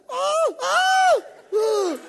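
high, loud yells of alarm; acted panicked screams. Driver about to be hit, yelling in panic. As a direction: holler wordlessly, bracing for a crash.

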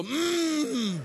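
long, high frustrated hum; held-back cussing. Retold or imitated. Can't give them that middle thing, mock frustrated hum. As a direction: squeeze out a comic closed-mouth "mmm". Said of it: "You just go".

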